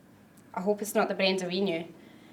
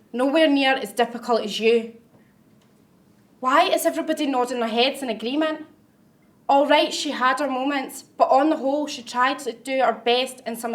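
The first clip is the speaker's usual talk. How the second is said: indignant retort; 3 semitones higher, 4 dB louder than usual. Acted. Bristles at her eulogy.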